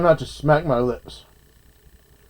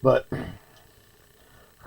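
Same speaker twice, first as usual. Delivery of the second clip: talking while chewing; words round a bite of food; mouth full; 3 semitones lower, 5 dB quieter than usual. Real, not acted. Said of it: "talking with my mouth full".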